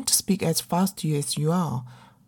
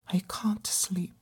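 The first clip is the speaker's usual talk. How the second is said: whisper; 8 dB quieter than usual. Acted. Alone at night, sleepless.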